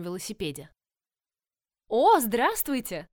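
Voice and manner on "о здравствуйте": slow, loud bright greeting; lively exclamation. A narrator's reading. Giovanna greets Scarlett loudly and happily, a lively exclamation. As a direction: call out a lively hello, drawn out. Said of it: "оживлённо воскликнула она".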